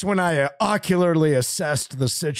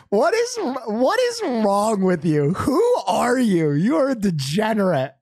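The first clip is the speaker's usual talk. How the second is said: laughing disbelief; 3 semitones higher than usual. Retold or imitated. Desk woman laughing at him.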